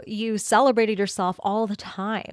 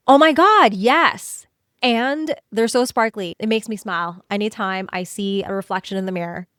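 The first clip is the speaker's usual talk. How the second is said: gushing delight. Retold or imitated. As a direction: happily own the compliment. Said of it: "inner bestie response".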